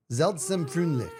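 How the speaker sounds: careful German name; German pronunciation. Shown as a demonstration. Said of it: "I feel like I just said it right".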